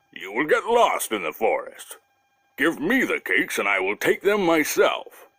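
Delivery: lightly voiced bear, firm refusal; a bear settling the matter his way. Bear refusing to let Masha go, lightly voiced firm bear. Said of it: "answered the bear".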